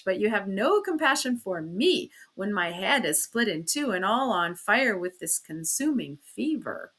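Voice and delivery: aggrieved, stressed complaint; wounded, dramatic reproach; self-pitying reproach. Acted. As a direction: plead your suffering as an accusation. Acted self-pitying complaint of sick husband.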